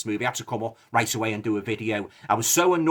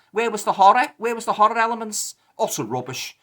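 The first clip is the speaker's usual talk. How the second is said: indignant outburst; 8 semitones higher than usual. Real, not acted. Ranting about missing horror.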